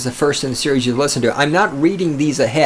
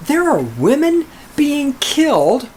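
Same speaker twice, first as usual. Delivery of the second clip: ranting; 10 semitones higher than usual. Real, not acted. Rant peak.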